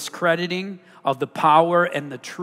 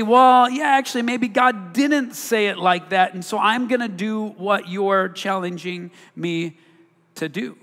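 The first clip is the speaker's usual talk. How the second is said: Adam and Eve voiced; 3 semitones higher than usual. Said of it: "And say".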